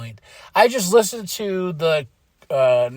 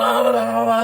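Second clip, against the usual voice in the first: mock screaming; 4 semitones higher, faster than usual. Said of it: "screaming at them".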